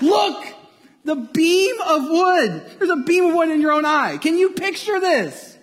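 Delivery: emphatic, loud exclamation. Shown as a demonstration. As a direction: punch "Look" and lean hard on "beam of wood". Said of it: "The Greek in there is very emphatic".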